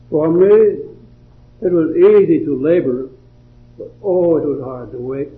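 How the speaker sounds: measured, earnest verse recitation; devotional poem reading. Acted. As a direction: read the poem aloud, pausing after each phrase.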